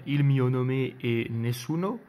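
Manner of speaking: slow, careful Italian accent, self-conscious amateur; clumsy Italian accent. Shown as a demonstration. Reviewer reads the Italian film title aloud to viewers, slow amateur Italian accent. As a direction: read the title out in your best shaky Italian accent. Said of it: "Désolé pour l'accent italien".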